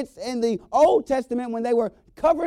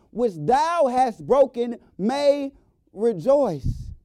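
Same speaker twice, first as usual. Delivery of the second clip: preaching at full force; 5 semitones higher than usual. Acted.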